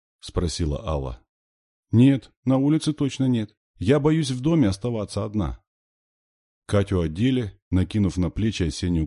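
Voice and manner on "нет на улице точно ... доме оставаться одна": put-on high, emphatic child's voice; high, childish plea; scared little girl. A narrator's reading. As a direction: insist like a frightened small sister. Small girl afraid to stay alone.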